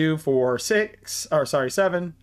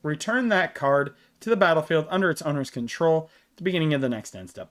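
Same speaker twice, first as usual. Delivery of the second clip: short of breath while reading; slightly winded, breathing hard between words. Real, not acted. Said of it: "I'm sorry if I sound out of breath".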